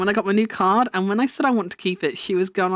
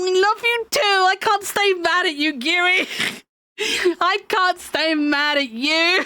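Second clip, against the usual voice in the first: high, laughing, giving up the grudge; can't stay mad, breaking into laughs; anger turning to laughter; 8 semitones higher than usual. Acted.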